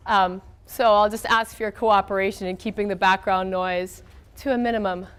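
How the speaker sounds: thin reedy voice with a cold; weak, strained voice from a head cold. Real, not acted. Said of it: "my voice is gonna be kinda weak today".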